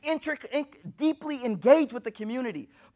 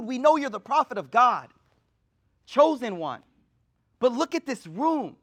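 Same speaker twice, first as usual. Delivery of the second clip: impassioned plea; 3 dB louder than usual. Retold or imitated. Umar's impassioned complaint retold.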